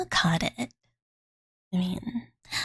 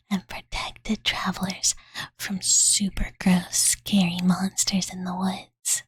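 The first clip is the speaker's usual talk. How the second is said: whispered bedtime story. Acted. Fuari reading a fairy tale to sleepy Master, whispered. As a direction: lull them to sleep with the tale.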